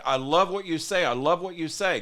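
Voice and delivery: imitated gushing praise. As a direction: gush like an eager supporter.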